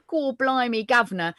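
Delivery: cheeky Cockney-style Essex cliché; mock Essex. Shown as a demonstration. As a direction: put on a token Essex accent. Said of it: "do more of an Essex".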